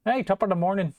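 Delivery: hammed-up Irish greeting; slipping into Irish. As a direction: let the Scottish slide into Irish. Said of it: "That was probably a little Irish".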